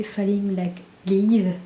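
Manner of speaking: English title in a real French accent. Real, not acted. Vlogger apologising for her poor English, French accent. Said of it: "Désolée pour mon accent".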